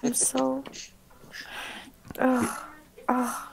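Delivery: gagging with disgust; dry heaving. Acted. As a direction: retch and groan in disgust. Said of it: "same kind of gag reflex for me".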